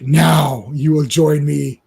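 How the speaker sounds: slow, loud menacing command; slow ominous demand; menacing villain. Acted. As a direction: draw it out like a sinister overlord.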